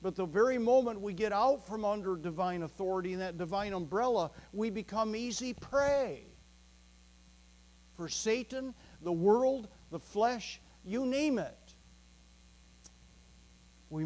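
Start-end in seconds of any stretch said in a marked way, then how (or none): 0.0-11.7 building, higher and louder, faster at the start; preaching climax. Real, not acted. Preacher warning the congregation about Satan, rising and loud. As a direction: rise to a warning cry.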